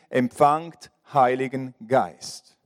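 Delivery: slow, low and solemn, bestowing the Spirit; solemn slow blessing. Acted. Preacher voicing Jesus giving the Spirit, slow and solemn. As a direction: breathe the words out slowly like a blessing.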